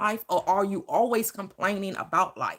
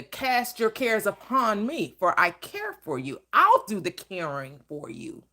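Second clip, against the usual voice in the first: scripture quote. Acted. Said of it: "What did the Christ say".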